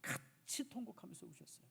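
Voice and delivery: whispered, fading to almost nothing; whispered, fading to near silence; moved whisper. Real, not acted. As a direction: let it sink into a hush. Preacher describing Jesus weeping.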